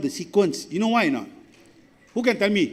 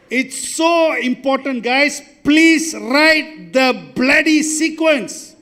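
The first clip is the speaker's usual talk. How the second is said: slow, loud and high, every word hammered; exasperated teacher insisting loudly; emphatic plea; 5 semitones higher, 4 dB louder, slower than usual. Real, not acted. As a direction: drag the class into listening, word by word. Teacher pleading with class.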